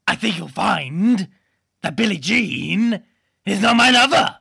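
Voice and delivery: a lightly voiced, slow deadpan comic; slow smug deadpan, drifting Welsh; mild mock comedian voice; Jimmy Carr impression. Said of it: "That's my impression of Jimmy Carr".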